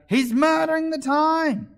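very high, slow, full-volume bawl; loud, drawn-out royal outburst; bawling queen. A narrator's reading. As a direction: shriek the order like an outraged queen. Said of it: "the Queen jumped up and bawled out".

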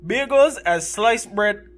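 lightly put-on Caribbean accent. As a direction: tour guide in a mild Caribbean lilt. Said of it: "Can you do it in the accent?".

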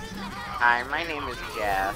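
Jeff impression. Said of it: "He sounds like".

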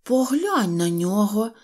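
slow, stretched call to the others; mild shout. Acted. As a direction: cry out in mild protest. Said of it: "закричав Сиропчик". (стриманий вигук)

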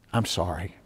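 very soft, low apology; retold quiet apology; hushed apology. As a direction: drop right down and apologise quietly. Husband returns to apologise after fight.

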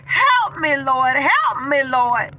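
pleading cry for help, voice breaking; crying prayer. Real, not acted. Praying to the Lord for help, crying out. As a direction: beg the Lord through tears.

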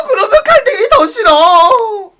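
half-laughing, half-sobbing mock whine; whiny disgust. Wailing no at the pushy club guy. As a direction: whimper no over and over like a spoilt child.

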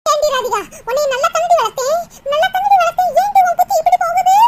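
angry reproach. Acted. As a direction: build to an upset mother's outburst. Mother scolds her daughter after confession. (கோபம் ஏறிக்கொண்டே போகும் அதட்டல்)

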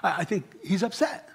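preacher voicing the family dog, softly and amused; dog's worried thoughts. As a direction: voice the dog's puzzled thoughts under your breath, amused.

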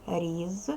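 Різ with a buzzing voiced Z at the end; voiced consonant. Shown as a demonstration. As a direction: hold the final З of Різ voiced, never like S. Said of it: "Дзвінкий приголосний".

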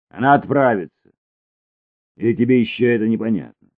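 loud and high, the question rushed; angry insistence. A narrator's reading. Cesare insists to Luk, loud and angry. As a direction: drive it home.

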